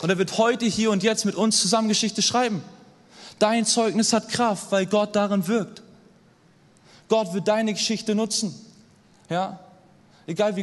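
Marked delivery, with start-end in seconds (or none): 3.4-5.8 emphatic repeat. Acted. Repeated key sentence, raised take.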